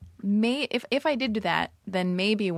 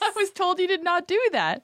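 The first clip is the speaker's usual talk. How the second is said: mock mom voice; 10 semitones higher than usual.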